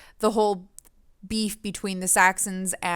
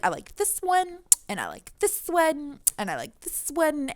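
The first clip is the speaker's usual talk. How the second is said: excited imitation; 6 semitones higher, 4 dB quieter than usual. Retelling author's enthusiasm.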